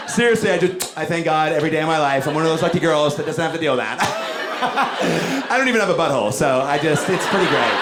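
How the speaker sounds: high, mock-innocent woman voice; prim girl. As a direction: pretend to be a lucky girl. Mock voicing a girl denying farts.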